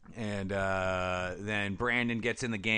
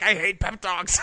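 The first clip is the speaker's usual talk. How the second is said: mock whine; 8 semitones higher, 5 dB louder, slower than usual. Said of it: "she's like".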